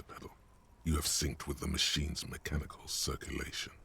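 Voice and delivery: measured scene setting; game master narration. A narrator's reading. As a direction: describe the cabin to the players.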